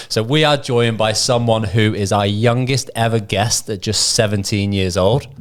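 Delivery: scripted guest intro. Real, not acted. Reads the scripted big guest intro.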